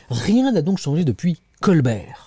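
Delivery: slow, measured newspaper reading; editorial read-aloud. Acted. Presenter reading a newspaper editorial to viewers, deliberate read-aloud. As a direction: read out the opening line deliberately.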